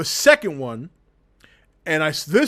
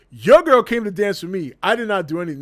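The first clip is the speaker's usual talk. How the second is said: louder, defiant retort; in his face; 3 semitones higher, 5 dB louder than usual. Retold or imitated. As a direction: throw it right in his face. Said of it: "straight up to his face".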